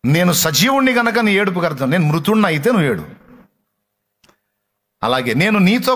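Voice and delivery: fervent sermon voice proclaiming Jesus' words; full-force preaching. Acted. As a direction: preach it out to the congregation.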